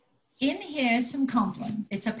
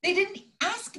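angry; 3 semitones higher than usual. Acted. Angry row with Roger.

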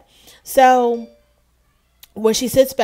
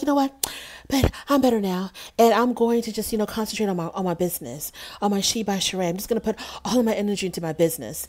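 mocking Sheree; 3 semitones higher, much faster than usual. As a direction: brush it off like she's fine now. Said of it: "And she's like".

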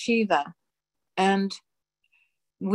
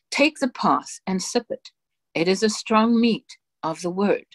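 solemn dictation. Acted. Reading God's dictation aloud to the congregation, solemn and measured. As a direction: intone each phrase with grave authority.

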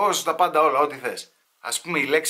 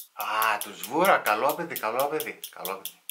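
gossiping aunt; 4 semitones lower than usual. Acted. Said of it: "Τι θα πούνε οι θείες".

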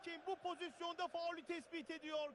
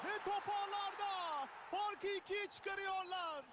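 screaming football commentator; 4 semitones higher than usual. Acted. Second goal in match commentary.

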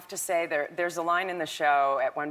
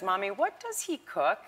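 put-on higher, innocent child's question; imitated curious daughter; 5 semitones higher, 4 dB quieter than usual. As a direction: lightly voice a daughter asking Mommy. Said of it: "She says".

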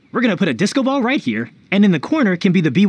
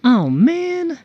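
high, put-on disappointment; theatrical regret; 5 semitones higher than usual. Youth feigning regret to tempt elders.

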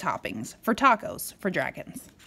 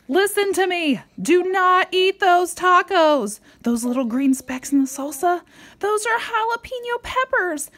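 louder, higher, pleading to the dragons; urgent warning; 8 semitones higher, 4 dB louder than usual. Acted. Parent warning the dragons in the story, louder and urgent. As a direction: warn them urgently not to eat.

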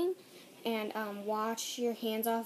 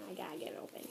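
muttered under the breath, much softer; softly murmured aside while opening; half-whispered; 3 semitones lower, 9 dB quieter, much faster than usual. Real, not acted. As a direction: whisper it to yourself while fiddling. Struggling to open envelope.

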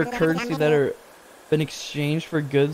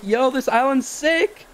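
high, slow mock sales pitch; hyped salesman; 10 semitones higher, slower than usual. Player mocking Nook's pitch, high and slow. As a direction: oversell it like a pushy dealer. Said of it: "He's like".

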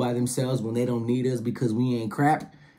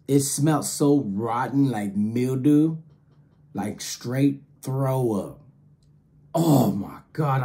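disgusted; slower than usual. Retold or imitated. Describing rotten smell, disgusted.

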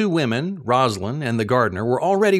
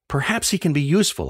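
a quick, hurried aside; quickly added; faster than usual. Retold or imitated. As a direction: slip it in fast to persuade. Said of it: "I added quickly".

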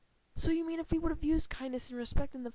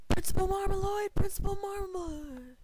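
raised voice, long-held final syllable; calling out; 8 semitones higher, 5 dB louder than usual. Acted. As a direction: holler the name to summon someone. Calls out for the principal.

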